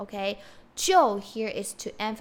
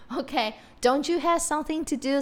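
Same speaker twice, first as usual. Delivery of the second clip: teasing mock scold; 4 semitones higher, faster than usual. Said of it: "like the expression in English".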